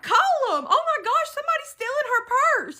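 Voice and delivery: high, loud, urgent exclamation; retold alarm. Bystander backing up a robbed woman, retold excited alarm. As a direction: join the outcry, shocked and urgent.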